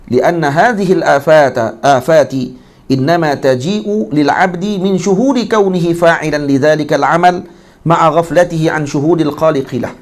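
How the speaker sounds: measured slow Arabic text reading; slow recitation. Acted. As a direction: intone the classical text slowly.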